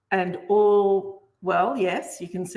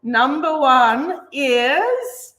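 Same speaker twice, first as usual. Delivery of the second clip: suspense; 4 semitones higher, 4 dB louder, much slower than usual. Real, not acted. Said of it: "Drum roll".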